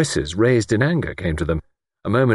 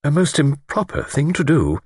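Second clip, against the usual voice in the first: gentle, higher-pitched lady; 8 semitones higher than usual. A narrator's reading. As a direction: disapprove gently, soothing the lord. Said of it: "Miss Wainfleet said gently".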